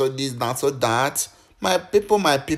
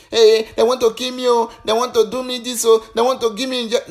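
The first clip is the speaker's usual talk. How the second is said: higher-pitched imitation of someone raving; mock panicked shouting; 6 semitones higher than usual. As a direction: mimic someone crying out in alarm, pitched up. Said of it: "he cannot just come out and start shouting".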